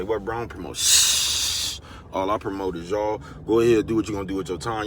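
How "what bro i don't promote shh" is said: quoting himself. Retold or imitated. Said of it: "I say".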